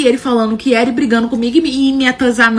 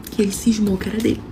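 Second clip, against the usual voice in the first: whispered aside; 6 dB quieter than usual. Real, not acted. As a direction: drop to a conspiratorial whisper. Aside about the ex's fixation. (cochichando de lado)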